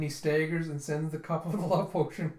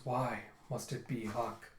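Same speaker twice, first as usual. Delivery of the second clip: lovelorn murmur; 3 semitones lower, 6 dB quieter than usual. Retold or imitated. Acted lovesick question to Yona.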